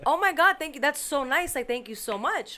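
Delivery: high, effusive gratitude; re-enacting delighted thanks for a gift; retold gushing thanks. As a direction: gush thanks, starting loud and high then easing.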